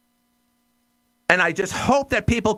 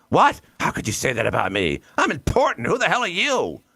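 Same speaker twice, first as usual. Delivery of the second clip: mock indignation. Mocking offended elites.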